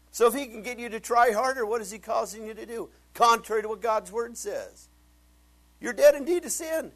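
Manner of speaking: loud, high, driving sermon shout; full-force preaching. Real, not acted. Preacher shouting to his congregation about dead people, loud and high. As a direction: hammer it home to the congregation.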